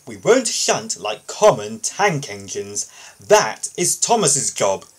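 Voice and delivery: proud Gordon scorning shunting; haughty. Acted. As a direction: look down on tank engines.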